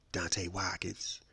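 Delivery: ordinary talk, nothing marked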